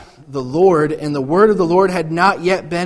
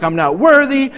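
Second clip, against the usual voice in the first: high, loud wail of unworthiness; hammed-up fearful lament; mock crying awe; 8 semitones higher, 6 dB louder than usual. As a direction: imitate people overcome with fear. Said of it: "they're, like, crying".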